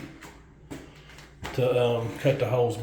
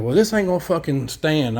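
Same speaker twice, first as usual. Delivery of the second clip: higher, louder mock indignation; retold indignant protest; 4 semitones higher, 5 dB louder than usual. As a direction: imitate the plumber's heated objection. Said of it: "stormed off like a kid".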